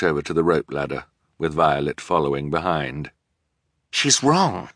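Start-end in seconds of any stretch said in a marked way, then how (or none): 3.9-4.7 furious whisper. Acted. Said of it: "whispered furiously".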